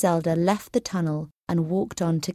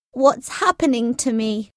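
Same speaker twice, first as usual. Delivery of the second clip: higher-pitched, pained bewilderment; alarmed; 6 semitones higher, 3 dB louder than usual. A narrator's reading. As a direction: ask in alarm, pitch raised. Stricken captain panics at the magic.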